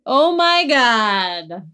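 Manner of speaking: slow stunned exclamation; disbelief. Real, not acted. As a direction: drag it out in disbelief. Disbelief at quote.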